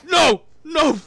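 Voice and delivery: loud high cries of no between laughs; laughing shouts. Real, not acted. Losing the fight, loud laughing shouts. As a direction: yell no while cracking up.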